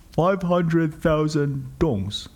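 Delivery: put-on slow, halting Vietnamese accent; broken English. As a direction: drag out the price like the driver. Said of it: "said the driver".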